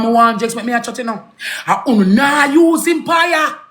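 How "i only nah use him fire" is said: shouting. Real, not acted. Heated rant about being used.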